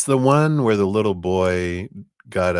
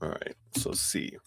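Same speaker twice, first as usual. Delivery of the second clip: talking while crunching a cough drop; crunching a cough drop mid-sentence; 2 semitones lower, 11 dB quieter than usual. Real, not acted. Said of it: "I'm crunching my cough drop".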